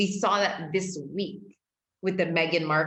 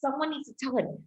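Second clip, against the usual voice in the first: excited cheer; 8 semitones higher than usual. Retold or imitated. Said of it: "And I was like".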